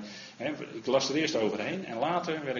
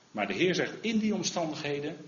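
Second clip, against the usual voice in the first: usual speaking voice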